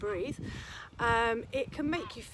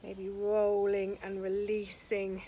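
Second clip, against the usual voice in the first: slow, spacious instructor's voice; guided relaxation; slower than usual. Acted. Yoga teacher easing students into shoulder release, gently guided relaxation. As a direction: guide them through each stretch unhurriedly, leaving long pauses.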